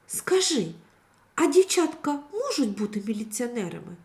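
careful question. Acted. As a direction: ask shyly, hoping for yes. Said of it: "обережно запитала Катруся". (обережне запитання дівчинки)

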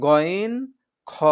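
গইন and খ said heavy and thick; full, heavy খ from the throat's end; thick ghain. Shown as a demonstration. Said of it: "এটা হচ্ছে মোটা করে". (মোটা করে গইন)

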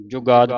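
ਜੁਗਾਦ with a pressed, doubled consonant; tightened consonant. Shown as a demonstration. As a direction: say ਜੁਗਾਦ tightly, as if marked with adhak. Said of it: "ਅਧਿਕ ਲੱਗੇਗਾ".

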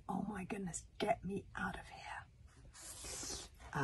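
hushed, whispery aside; slow, trailing-off soft plea; anxious inner thought. Acted. Wish silently wants out of the tunnel, anxious. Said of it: "Wish is just thinking".

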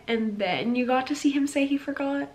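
whispered, tender recollection; soft whisper. Real, not acted. Fan recalling a favorite show scene, whispered. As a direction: hush as if sharing a secret.

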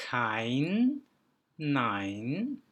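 "Kein, nein" with EI drawn out as "eye". Shown as a demonstration. Teacher giving examples of E I, careful drawn-out ay. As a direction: say "Kein", pause, "nein", both rhyming with "mine". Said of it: "ay diye okuyoruz".

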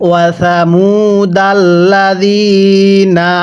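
drawn-out Quran recitation, word stretched; slow recitation. Shown as a demonstration. Teacher recites slowly so students can follow. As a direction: chant it slowly for students to repeat. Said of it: "আপনি আমার সাথে পড়ুন".

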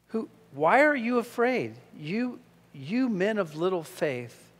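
a lightly voiced Jesus gently scolding; Jesus rebuking. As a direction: chide them like a patient master. Jesus rebuking frightened disciples.

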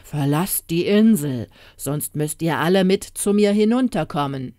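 lightly voiced growling sea giant, weighty and forceful; muffled menace from below; rumbling giant. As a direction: rumble a warning up from the depths. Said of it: "eine dumpfe Stimme in der Tiefe grollend".

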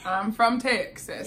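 light Southern country accent, punchier; low country accent. Shown as a demonstration. Woman telling friend she's Texan, low country accent. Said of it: "Like the low country accent I did".

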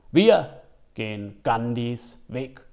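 low, slow, solemn vow; solemn quote. Acted. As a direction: say it like a sacred oath, slowly. Feierliches Zitat der Figur. (feierlich, langsam und tief)

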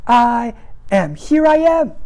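slow, gentle voice of Jesus calling; lightly voiced Jesus at the door; voicing Jesus. Preacher voicing Jesus knocking, slow and gentle. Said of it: "He says".

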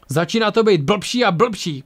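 complaining. A narrator's reading. Ang under fire as things worsen, complaining. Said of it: "postěžoval si Ang".

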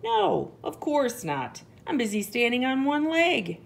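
high, huffy heron refusal; grumbling. A narrator's reading. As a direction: refuse as if bothered while busy. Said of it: "Heron grumbles".

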